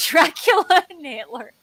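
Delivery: hint of a Dracula-Hitler voice, laughing; Tim Curry voice. Mimicking Tim Curry's Dracula-Hitler mix for cohost, with a laugh.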